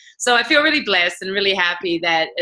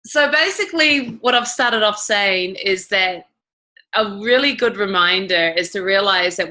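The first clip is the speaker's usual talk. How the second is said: slow, measured delivery for an interpreter; slow it down so it can be translated; slowed for translation. Real, not acted. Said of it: "I'm gonna slow down a bit now".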